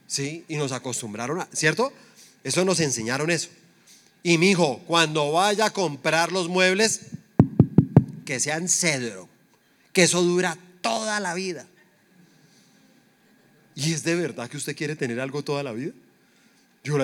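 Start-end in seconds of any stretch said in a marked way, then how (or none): 4.2-11.7 imitated advising parent. Voices parent's advice on furniture.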